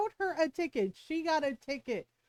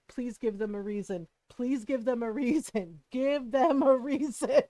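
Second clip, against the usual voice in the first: mischievous inner voice; 3 semitones lower than usual. Retold or imitated. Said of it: "the bad part of my brain was like".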